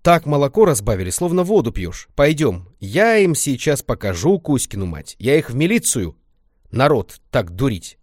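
loud, high indignant grumbling, slowing on threats; angry rant. Acted. Grandma rants about the diluted milk, angry scolding. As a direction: rant like an outraged granny.

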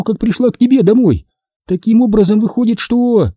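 put-on high-pitched drunken rambling; Caroline, tipsy and muddled. Drunk woman losing count of her points to Берни, high and muddled. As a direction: lose the thread in a high tipsy voice.

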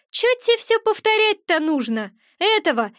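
irritated gremlin, mildly snappish; grumpy snarl. Acted. Gremlin snaps at the witch for asking again, grumpy. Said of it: "сварливо огрызнулся ушастый".

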